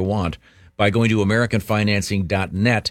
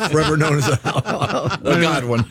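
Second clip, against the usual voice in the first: higher, laughing, grand mock title; 6 semitones higher than usual. Real, not acted. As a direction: proclaim it while laughing. Mocking nickname, laughing.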